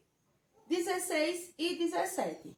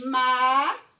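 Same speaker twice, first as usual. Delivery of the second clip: syllables counted out; 7 dB louder than usual. Shown as a demonstration. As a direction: tap out each syllable of Macaco. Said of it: "Vamos contar?".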